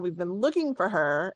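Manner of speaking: mildly exasperated, official complaint; understated annoyance; annoyed. Acted. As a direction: let a touch of irritation show. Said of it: "kind of an annoyed tone".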